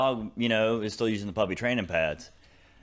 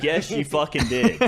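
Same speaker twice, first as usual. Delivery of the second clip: slow, higher mock-angry comeback; retold insistent retort; 4 semitones higher, 3 dB louder, slower than usual. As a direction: imitate a brother insisting, drawn out. Retold back-and-forth quarrel with brother.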